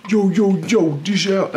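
put-on Black American accent, briefly hammed up; exaggerated imitation of a Black American accent; caricatured Black American accent. Shown as a demonstration. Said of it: "if I did a black people accent".

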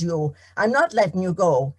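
a farmer who has lost his patience; angry farmer. Acted. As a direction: seize him and bark it out. Tom shaking the leprechaun.

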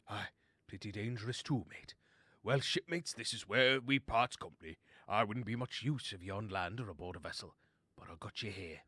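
lightly voiced old sea dog; a hint of hearty sailor bidding farewell; seafaring sea lion. Sea lion parts company with his shipmates, lightly voiced sailor.

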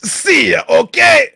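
high, loud put-on voice; mock dismissive shout. Leaving the chat argument, high dismissive mock shout. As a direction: shout a brusque goodbye up high.

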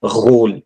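French R scraped in the throat at the start of गोल; French guttural R. Shown as a demonstration. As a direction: begin गोल with a throaty r-kh sound, not a rolled r. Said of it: "ठीक है, not roll". (गोल में French वाला गले का र)

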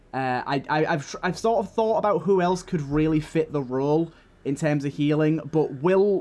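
loud, eager game planning; excited. Real, not acted. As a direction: talk it up with energy.

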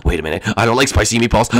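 deep grumbling creature; low monster complaint. Acted. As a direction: whine like a giant. Monster voice reacting.

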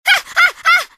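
high rapid cries of alarm; repeated frightened shrieks; panicked yelps. Acted. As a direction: yelp in panic, falling.

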